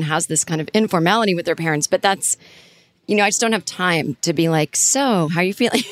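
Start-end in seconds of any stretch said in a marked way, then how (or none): 4.8-5.8 tiptoeing in, lightly acted; mock gentle check-in. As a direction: pretend to ease delicately into the question. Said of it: "gently talking".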